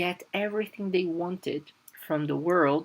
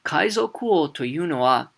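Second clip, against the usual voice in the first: whispered; 4 dB louder than usual. Retold or imitated. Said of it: "So he says".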